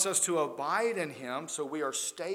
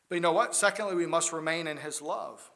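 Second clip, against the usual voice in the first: a sudden loud, rising call to the room; preacher's loud rhetorical call; 7 dB louder than usual. Real, not acted. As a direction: throw the question out loud to the pews. Preacher calling out to congregation.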